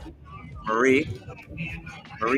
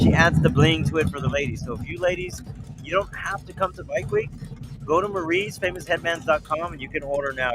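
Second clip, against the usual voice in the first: higher, pushy TV sales pitch; infomercial; 6 semitones higher than usual. Acted. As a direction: sell it like a late-night ad. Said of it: "I sound like a damn infomercial".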